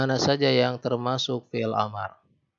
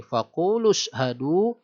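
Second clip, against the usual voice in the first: slow, drawn-out chanted reading; Quran recitation; much slower than usual. Shown as a demonstration. Teacher reciting a verse for students, slow chanted recitation. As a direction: intone the verse slowly like tilawah.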